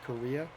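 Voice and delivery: Correa with a rising questioning end; puzzled question. Shown as a demonstration. Double-checking the name the announcer said, questioning. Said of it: "Correa, huh?".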